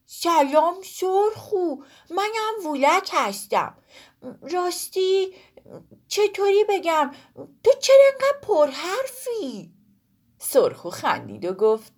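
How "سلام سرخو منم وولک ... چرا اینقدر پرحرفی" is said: put-on smiling boy. Woolak smiles at the talking pomegranate and teases her. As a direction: greet her gently, then tease. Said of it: "به انار لبخند زد".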